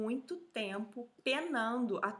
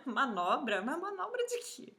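baffled question, higher at the end; retold puzzlement; 3 semitones higher than usual. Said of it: "E aí ele".

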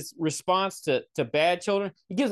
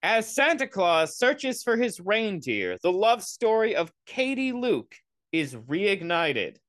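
slow, deliberate synopsis read; reading box blurb aloud; 2 semitones higher, slower than usual. Acted. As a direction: read it out slowly like a trailer blurb. I'll read it to you anyways.

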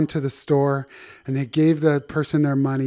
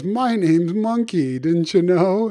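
monkey character voice; 4 semitones higher than usual. Acted. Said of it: "He goes".

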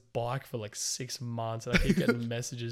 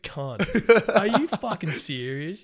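high, loud, slowed mock rage; hammed-up fury at a time-waster; angry rant; 9 semitones higher, 8 dB louder, slower than usual. Seller retelling blowing up at a lowballer, mock furious. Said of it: "I just lost it".

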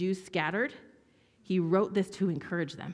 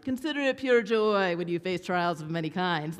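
smug pious reading; holier-than-thou voice. Retold or imitated. Preacher mocking his own pious reading of James. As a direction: read it like you have it all figured out. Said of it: "a holier-than-thou voice that's like".

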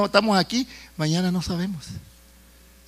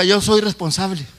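"Yo soy responsable" said slowly and firmly; slow prompting declaration. Shown as a demonstration. Preacher has congregation repeat "Yo soy responsable", slow prompting declaration.

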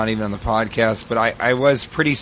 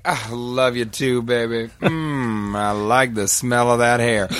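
hammed-up tenderness; slower than usual. Acts himself cuddling scared wife.

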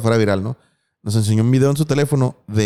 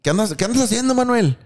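higher, playful voice asking what Manuel is up to; voice of the ant; 9 semitones higher than usual. Retold or imitated. Ant addressing Manuel in a high, teasing little voice. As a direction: pitch it up like a nosy little ant. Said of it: "esa madre es un güey que dice".

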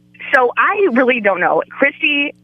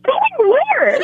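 retold confusion. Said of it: "I was like".

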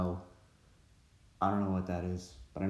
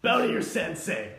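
sharp martial arts commands. Retold or imitated. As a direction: bark out orders like a sensei. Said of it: "This is just like Napoleon Dynamite".

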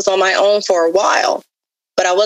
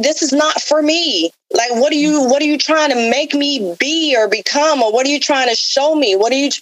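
retold desperate plea; 7 semitones higher than usual. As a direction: beg God for answers, pitched way up in despair. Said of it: "yelling and screaming at him".

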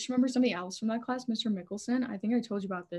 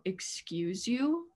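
drawn-out, offended question rising at the end; indignant retort; much slower than usual. Retold or imitated. Retelling a reply to the teacher's laser pointer, indignant. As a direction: stretch it out as an affronted question.

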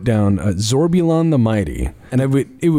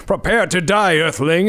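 lightly voiced alien villain, pitched up; mock-grand threat; space invader threat; 5 semitones higher than usual. Invader with ray gun threatening a clerk, lightly hammed villain. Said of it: "he's just got his ray gun out".

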